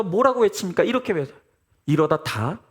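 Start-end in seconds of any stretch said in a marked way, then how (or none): 1.8-2.6 put-on half-hearted old man's cry. Preacher quotes Squid Game grandfather's famous line, half-hearted old man's cry. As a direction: quote the old man's line, long pause before the last word. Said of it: "할아버지가 외치는 유명한 대사가 있잖아요".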